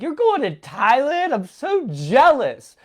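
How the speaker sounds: high-pitched, gushing envy; excited friend. Retold or imitated. Friend hearing about the Thailand trip, excited. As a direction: squeal it like an envious friend. Voices friend's envious, thrilled reply.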